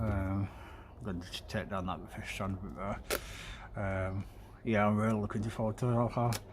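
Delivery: talking round a needle in mouth; mouth full. Real, not acted. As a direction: speak with a needle held in the mouth. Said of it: "I've got a fed needle in my mouth".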